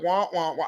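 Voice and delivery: lightly mimicked muffled teacher drone; a mild mock wah-wah of a droning adult; Charlie Brown teacher. Mimicking how Gary sounded to his starstruck ears, droning wah. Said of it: "Charlie Brown with the teachers are like".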